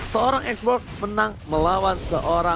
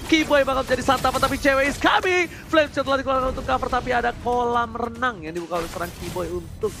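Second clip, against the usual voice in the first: live play-by-play. Acted. Live play-by-play of team fight.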